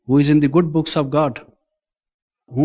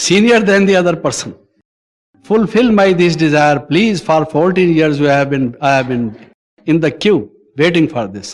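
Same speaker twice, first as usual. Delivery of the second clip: louder hammed-up plea to God; mock pleading prayer; 2 semitones higher, 4 dB louder than usual. Seeker begging God for senior rank, mock pleading. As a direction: beg the Almighty for a promotion, half in jest.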